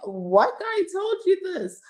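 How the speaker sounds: high, shocked squeak of disbelief; incredulous question. Retold or imitated. To the bartender, high indignant disbelief. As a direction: squeal it up, stunned.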